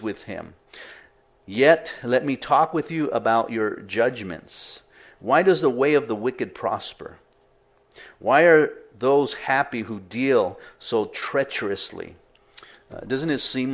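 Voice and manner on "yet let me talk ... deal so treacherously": measured Bible reading; scripture reading. Acted. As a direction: read the plea deliberately. Reads Jeremiah's plea aloud.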